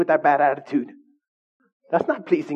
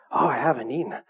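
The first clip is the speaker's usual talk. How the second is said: dramatic complaining; 4 semitones lower, 4 dB quieter than usual. Retold or imitated. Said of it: "making it a big old commotion".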